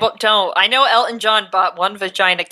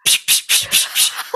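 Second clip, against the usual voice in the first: hissing psh water blasts, fast; voiceless spraying sounds; water spray noises. Retold or imitated. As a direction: imitate the jets of spraying water. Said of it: "blasting water".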